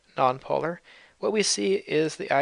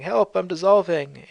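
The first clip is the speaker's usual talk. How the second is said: mild hammed-up cry for help, slow and a bit louder; a drowning polar bear calling out, mock yell; 4 semitones higher, 4 dB louder than usual. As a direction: read the comic bear's plea like a half-hearted shout. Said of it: "the polar bear is yelling".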